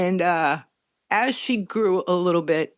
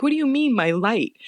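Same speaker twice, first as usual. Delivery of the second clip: puzzled; 5 semitones higher than usual. Retold or imitated. Mother's puzzled reply.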